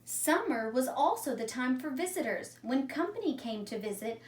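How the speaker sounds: calm read-aloud storytelling voice; story narration. A narrator's reading. Teacher reading a story to her class, calm narration. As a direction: read it like a story for young children. Teacher reads a picture book.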